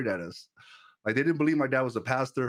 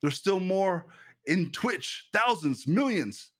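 fervent preaching; 2 semitones higher than usual. Acted. Preacher rallying his Twitch chat to trust God, fervent preaching. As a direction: preach it, pushing the congregation to trust.

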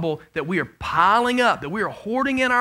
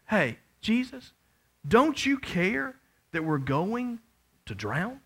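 soft, slow, pleading; hushed desperate plea; 6 dB quieter, slower than usual. Retold or imitated. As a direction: beg quietly as if drowning. Voicing disciples' plea to Jesus.

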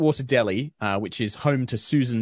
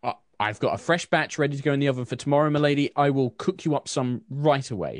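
eager baker; 5 semitones higher than usual. Acted. Susan offers fresh batch.

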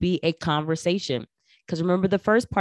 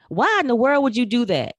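exasperated; 6 semitones higher, 6 dB louder than usual. Retold or imitated. Exasperated question to a colleague.

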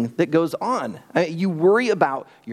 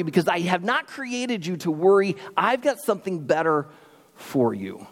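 Jesus reassuring; 3 semitones higher than usual. Retold or imitated. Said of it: "He's gonna say".

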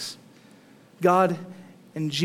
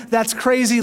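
a louder, raised scoffing rejection; mock scoffing; 5 semitones higher, 5 dB louder than usual. Preacher imitating a crowd rejecting God, mock scoffing. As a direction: push it away with a hammed-up scoff. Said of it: "One response is to see the movement of God and just say".

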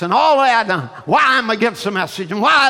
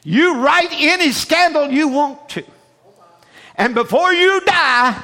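thundering prophet voice; 7 semitones higher, 4 dB louder than usual. Retold or imitated. Prophet warning the reporter.

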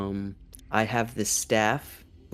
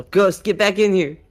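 loud, high call to come back; yell; 9 semitones higher, 11 dB louder than usual. Acted. Player calling a runaway companion back inside, yelling. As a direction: yell it out to summon someone far off. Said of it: "I'ma yell".

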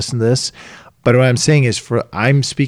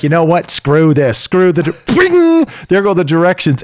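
higher, tossing it all aside; fed up; 6 semitones higher, 3 dB louder than usual. Retold or imitated. Fed-up dad throwing away the directions, higher. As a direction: give up on the directions with a flourish. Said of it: "you're just like".

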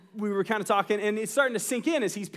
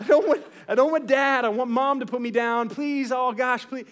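hammed-up pleading that climbs into a laughing wail; dad mimicking his son's bedtime panic, mock desperate; mock child panic; 4 semitones higher than usual. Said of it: "he starts kinda almost panicking".

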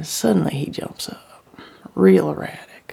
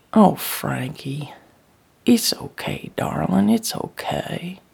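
tender reassurance; 2 semitones higher than usual. Acted. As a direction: comfort someone who is crying, unhurried. Comforts her crying husband.

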